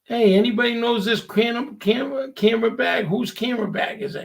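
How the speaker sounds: hey, whose bag, called out high; boss calling out. Retold or imitated. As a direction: mimic the boss asking around the room. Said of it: "And he goes".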